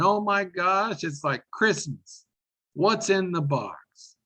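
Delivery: high, slow gushing delight; breathless mock thrill at the box; perky and excited. Shown as a demonstration. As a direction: act thrilled like opening a Christmas gift. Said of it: "your attitude better be perky and excited".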